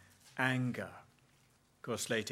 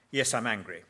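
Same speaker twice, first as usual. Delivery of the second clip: mock angry reply; 5 dB louder than usual. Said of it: "the conversation goes like this".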